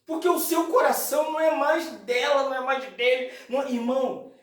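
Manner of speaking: high, emphatic sermon voice; impassioned preaching. Acted. Preaches at full force. (pregação fervorosa, voz elevada)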